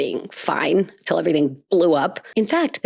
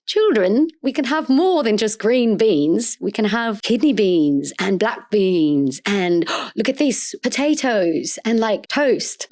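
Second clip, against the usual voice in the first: lightly voiced knight; 3 semitones higher, slower than usual. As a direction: coax the children like an eager guardian. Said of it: "They were like".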